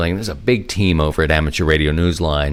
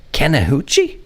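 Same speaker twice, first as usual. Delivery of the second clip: savoring the word; 7 semitones higher than usual. Pretend. Savoring a name he finds sexy.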